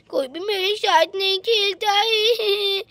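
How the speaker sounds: put-on slow, sobbing child's whine; a little girl crying that no one plays with her. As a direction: drag it out through tears. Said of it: "देखो बेचारी कितनी ज्यादा रो रही है".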